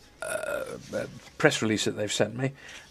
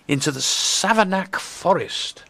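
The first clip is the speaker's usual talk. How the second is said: slow and higher, picking through the name; slow, careful name; 6 semitones higher, slower than usual. Real, not acted. Presenter introducing a tricky name on air, slow and careful. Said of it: "I'm gonna say it slowly".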